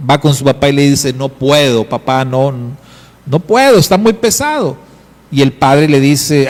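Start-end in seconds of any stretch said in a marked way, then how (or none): 1.1-4.8 queja de niño que sube al final; un niño que ya no puede más; niño quejándose. Acted.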